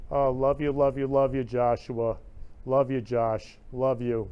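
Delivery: excited on-air shout-out to the viewers; calling out love. Real, not acted. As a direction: beam warm love at the viewers, loud.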